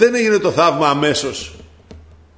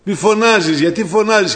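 scolding crowd; 4 semitones higher, slower than usual. Acted. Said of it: "του λέγανε".

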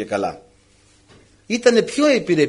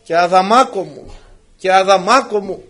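pleading "Αδαμάκο μου" over and over, a little louder each time; a wife's mock coaxing that grows more insistent; nagging, building; 3 dB louder than usual. Wife nagging her husband Adam, mock pleading that builds. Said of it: "αρχίζουν οι γυναίκες τη μουρμούρα".

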